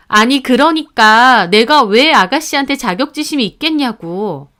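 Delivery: insistent, heated wife repeating herself; exasperated protest. Acted. Wife denying envy of his sister, exasperated insistence. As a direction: protest with rising exasperation, pushing the words.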